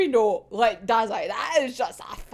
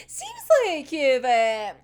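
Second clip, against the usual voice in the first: smug Dazai; 4 semitones higher, 4 dB louder than usual. Retold or imitated.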